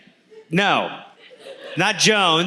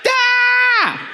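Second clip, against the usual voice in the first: excited shout. Real, not acted. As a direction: yell it like a win. Excited outburst.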